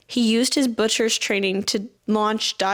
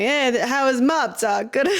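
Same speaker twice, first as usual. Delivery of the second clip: put-on failed New York accent; 4 semitones higher than usual. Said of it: "really heavy New York accent".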